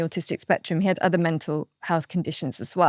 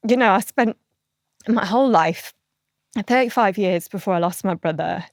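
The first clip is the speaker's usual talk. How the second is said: emotional. Real, not acted. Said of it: "getting a bit emotional".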